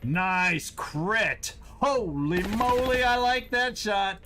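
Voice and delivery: high, loud delighted cheering; excited cheer. Real, not acted. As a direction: cheer the big hit. Celebrating a critical hit.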